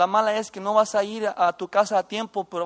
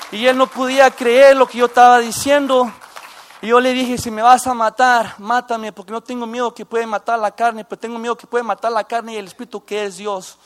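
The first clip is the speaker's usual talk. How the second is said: louder, raised pitch, preaching fire; defiant loud declaration; 2 semitones higher, 7 dB louder than usual. Retold or imitated. Ex-gang member defies the Big Homie, loud defiant preaching. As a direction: fling it out like a sermon you would die for.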